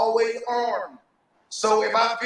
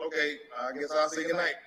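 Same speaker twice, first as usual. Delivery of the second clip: quiet voice; 7 semitones lower, 6 dB quieter than usual. Retold or imitated. Retold late-night phone call.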